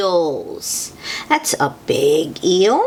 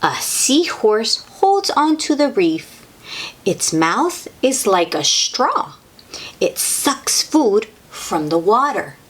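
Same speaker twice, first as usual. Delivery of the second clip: put-on reading to children; 3 semitones higher than usual. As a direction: read it out to small kids, unhurried. Reading a picture book aloud.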